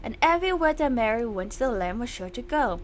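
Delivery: ominous nursery-rhyme voice; creepy poem reading. Acted. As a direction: recite it like a dark bedtime rhyme. Reads the creepy poem aloud.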